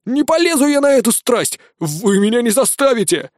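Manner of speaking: high, rising frantic refusal; a terrified repeated no; frightened protest. A narrator's reading. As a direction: back away in panic. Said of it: "запротестовал осьминог".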